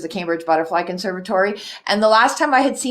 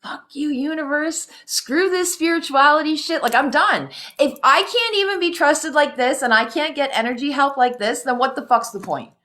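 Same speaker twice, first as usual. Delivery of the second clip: retold fury; 5 semitones higher than usual. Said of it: "I was pissed".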